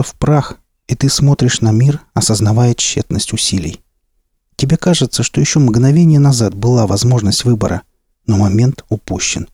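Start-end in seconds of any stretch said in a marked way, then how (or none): none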